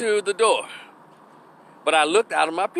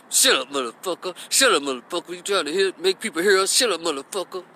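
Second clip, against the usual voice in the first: lightly voiced angry boyfriend; tense, contained mock scolding through the teeth; imitated man hushing her through his teeth. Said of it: "talking through her teeth".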